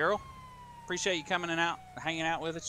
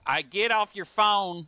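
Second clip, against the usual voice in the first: stern yell; 7 semitones higher, 9 dB louder, slower than usual. Real, not acted. Cop orders inmate off phone.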